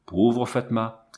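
slow, sighed pauvre Fatma; sighing lament. Acted. The Arab mourning his eaten wife, slow and sighing. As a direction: draw it out on a sigh of grief. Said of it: "Il poussa un soupir et dit".

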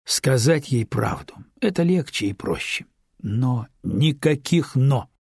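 slow, firm and stern; no but about it, said sternly and slow. Acted. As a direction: lay down the law slowly. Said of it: "строго сказал Андрей".

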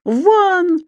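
high, shorter angry cry. A narrator's reading. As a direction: scream at him to get out. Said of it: "ещё громче завопил господин Стукин Крик".

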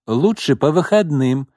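put-on high, brisk girl voice; businesslike. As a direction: state it matter-of-factly. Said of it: "деловито вставила Роксана".

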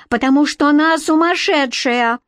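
high-pitched indignant outcry; exclaimed accusation. A narrator's reading. Queen explains captor's motive, exclaimed accusation. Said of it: "выкрикнула Красная Шапочка".

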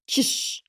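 sharp unvoiced shush. A narrator's reading. Vika shushing the assistant. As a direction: hush her at once. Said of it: "шикнула".

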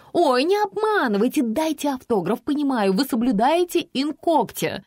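high, gushing fan voice. Acted. Fan aunt begging the writer for an autograph, high and gushing. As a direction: coo like an overeager admirer.

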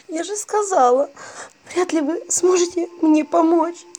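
high, loud tearful whine; sobbing bride. A narrator's reading. Dead bride sobs to the narrator, tearful whine. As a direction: sob out the hopeless words. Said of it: "всхлипнула мёртвая девица".

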